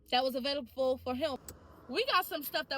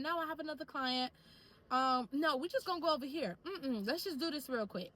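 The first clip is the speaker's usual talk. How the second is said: evasive excuse; 2 semitones higher than usual. Shown as a demonstration. Dodging the client instead of saying she won't go up, evasive. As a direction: make an excuse rather than refuse outright. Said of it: "Instead of saying".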